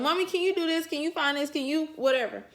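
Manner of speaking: a light hint of a high little boy voice; little son asking. Son always asking mommy, lightly voiced child. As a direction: mimic the kid's endless requests. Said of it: "it's always".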